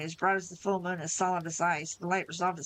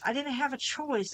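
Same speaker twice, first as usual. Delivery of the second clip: higher, slow whine; whining; 7 semitones higher than usual. A narrator's reading. Ace excuses himself to Fix and Meryl, higher slow whine. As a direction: plead it like a self-pitying coward. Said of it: "Ace whined".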